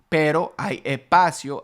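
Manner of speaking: "espacio" as "ehpacio", S breathed out as h; aspirated S. Shown as a demonstration. Teacher pointing out the aspirated Caribbean S. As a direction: soften the S to a breath. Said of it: "again, espacio".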